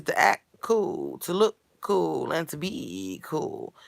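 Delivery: slow, stretched-out recital; drawn-out mocking recitation; mock pledge. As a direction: drag out each COOL like a pledge.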